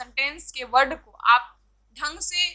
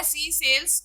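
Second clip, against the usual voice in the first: slow, careful tongue twister read; much slower than usual. Shown as a demonstration. Teacher reading a tongue twister to students, slow and deliberate. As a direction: spell the tongue twister out slowly. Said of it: "दूसरा क्या है".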